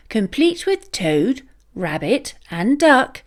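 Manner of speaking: ordinary delivery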